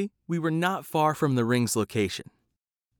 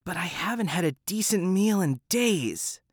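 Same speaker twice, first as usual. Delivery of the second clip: whiny cat; 5 semitones higher than usual. Acted. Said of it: "whined the cat".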